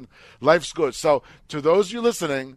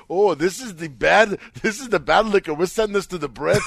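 half-hearted Scottish; 4 semitones higher, 5 dB louder than usual. Retold or imitated. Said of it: "I'm not gonna attempt to do the accent".

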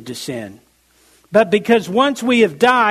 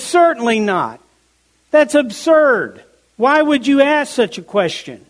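emphatic indignation; 3 semitones higher than usual. Retold or imitated. Preacher voicing Paul rejecting the question, mildly indignant. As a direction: flatly refuse the idea. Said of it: "he could not be more emphatic".

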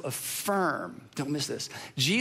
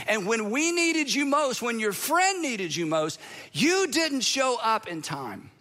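mild wounded complaint, hammed-up a little; Martha's frustration; 3 semitones higher than usual. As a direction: plead her hurt like a let-down friend. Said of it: "And here's what she's thinking".

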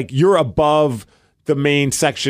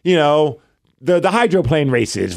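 arena host voice; 4 semitones higher than usual. Retold or imitated. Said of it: "are on the microphone in between stoppage of play".

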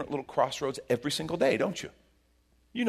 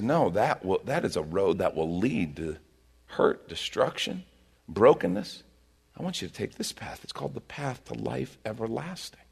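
calm guiding voice. Retold or imitated. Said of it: "Jesus says".

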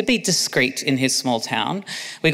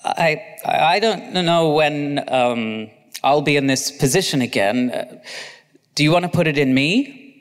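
stammering. Acted. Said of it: "Oscar started to stammer".

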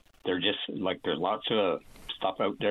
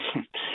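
nervous laugh; 4 dB quieter than usual. Real, not acted. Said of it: "I'm a little bit nervous".

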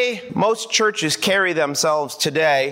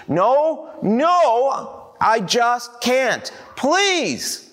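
high pleading; 6 semitones higher, much slower than usual. Acted. Girl and boy pleading.

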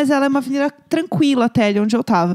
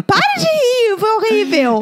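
laughing fit; 8 semitones higher than usual. Real, not acted. Laughing while telling scary story.

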